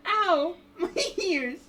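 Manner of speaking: high, loud ow through laughter; real pained yelp. Real, not acted. Player hurt by a loud scream, pained yelp. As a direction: yelp at hurting ears. Reacting to an ear-splitting scream.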